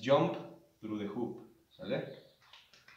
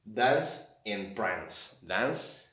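slow reading; 3 semitones lower, much slower than usual. Shown as a demonstration. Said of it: "los elephants en el circus".

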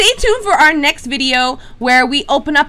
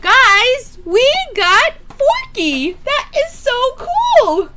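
excited announcement; 10 semitones higher, much slower than usual. Real, not acted. Announces to viewers.

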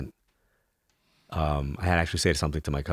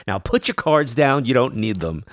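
louder, slower, commanding; firm order; 7 semitones higher, 5 dB louder than usual. Retold or imitated. Mentor ordering him to drop his cards, firm and loud. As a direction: lay down the law to him. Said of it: "She goes".

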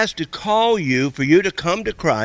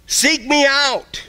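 much higher, very slow and drawn out; God's inner voice; 11 semitones higher, 3 dB louder, much slower than usual. Pretend. God calling the listener, high and slow. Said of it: "still voice inside of you say".

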